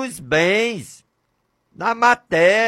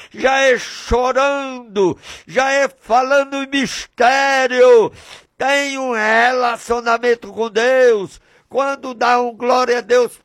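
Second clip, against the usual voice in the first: rising, full-voiced pulpit fervour; fervent preaching. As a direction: preach it out and build to the hallelujahs. Preacher building to praise.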